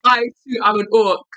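slow mock Cockney gangster voice; East London accent. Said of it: "get my East London accent on".

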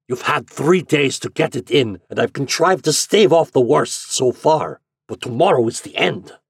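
put-on impassioned German-accented father; angry demand. A narrator's reading. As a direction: lay down a heated ultimatum. Father threatens son over money.

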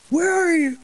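high, loud pouty "where are you"; high whiny voice. Retold or imitated. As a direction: squeak it out, needy. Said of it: "I was just like".

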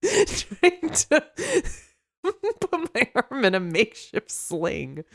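high mock-stoic line breaking into laughter; giggly, halting play-acting; laughing through it. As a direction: keep cracking up while playing the injured loner. Acts wolf, cracking up laughing.

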